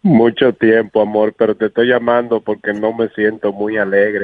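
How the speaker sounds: ugly fake crying. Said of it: "qué feo llora ella".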